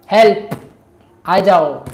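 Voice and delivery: loud acted cry for help; calling for help. Decoy voice summoning Ram to battle, loud call for help. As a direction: call out loudly, as if to someone far away. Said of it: "आवाज़ दी".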